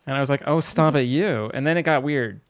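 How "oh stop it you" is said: much milder telling-off, dropping on you; playful chiding. Retold or imitated. Streamer replying to his own scolding, playfully chiding. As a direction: brush it off teasingly.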